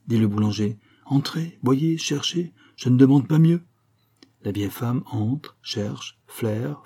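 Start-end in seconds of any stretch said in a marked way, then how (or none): 1.1-3.6 exasperated invitation. A narrator's reading. Baker invites search, exasperated.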